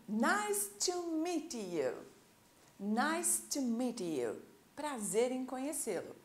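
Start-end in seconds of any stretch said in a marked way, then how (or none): 0.1-4.4 slow, drawn-out American English demonstration. Shown as a demonstration. Teacher models an introduction for learners, slow American English. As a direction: say it slowly in an American accent. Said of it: "Esse é o inglês americano".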